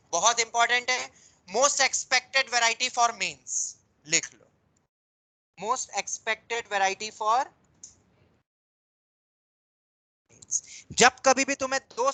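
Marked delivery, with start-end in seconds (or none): 1.5-3.5 very slow, word-by-word dictation; dictating. Real, not acted. Dictating a note to write down. 5.6-10.6 slow dictation with a long pause before the last word; dictating. Real, not acted. Repeating the note for writing.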